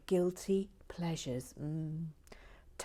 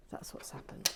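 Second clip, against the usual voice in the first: unvoiced whisper repeat; hushed self-talk; 6 dB quieter than usual. Real, not acted. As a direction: whisper it to calm down. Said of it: "I've just gone a little bit giddy".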